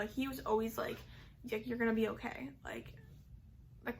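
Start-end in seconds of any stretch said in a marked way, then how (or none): 1.5-2.5 whispered gentle reassurance; dad comforting his crying daughter, hushed; dad's reassurance. Retold or imitated.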